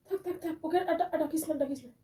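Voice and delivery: hushed. Acted. Mother-in-law hushing her son beside the sleeping bride. Telling son not to wake sick girl.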